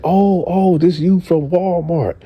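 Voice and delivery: high-pitched "ohh", suddenly realizing who it is; retold surprised recognition. Man realizes who the girl on the phone is, surprised. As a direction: act out the penny dropping, voice jumping way up.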